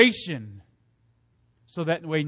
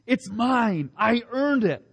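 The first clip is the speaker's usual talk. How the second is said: higher, clinging mock claim; possessive; 5 semitones higher, slower than usual. Preacher voicing our selfish pride, mock possessive. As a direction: claim it like a grabby child.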